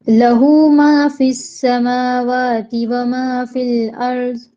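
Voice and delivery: slow, drawn-out tajweed chant; Quranic recitation. Shown as a demonstration. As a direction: recite it slowly, stretching each vowel. Recites Ayat al-Kursi.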